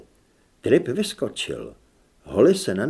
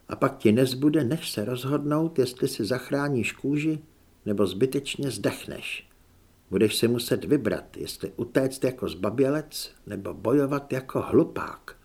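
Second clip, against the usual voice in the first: softer, mildly bitter warning; a touch of grim resignation; grave Holly; 4 dB quieter than usual. Acted. Holly warns Zed he will have to choose, grave and quiet.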